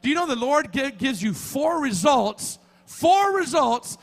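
building sermon fervour; emphatic preaching. Real, not acted. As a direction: drive the key words home, drawing them out. Preaches with rising force.

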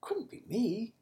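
soft unvoiced protest; whispered denial. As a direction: whisper it nervously. Peter denying in a whisper.

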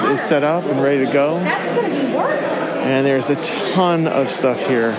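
muffled voice through a face mask; talking through a mask, muffled. Real, not acted. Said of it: "if I sound a little muffled, remember, we're all still wearing masks".

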